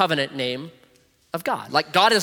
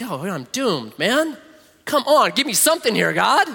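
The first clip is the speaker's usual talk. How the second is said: whining Moses; 5 semitones higher than usual. Retold or imitated. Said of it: "Moses is like".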